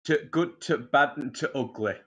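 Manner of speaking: mock Yorkshire with dropped articles; lightly put-on Yorkshire title; Yorkshire accent, for a laugh; Yorkshire film title. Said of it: "you know what my favourite movie is".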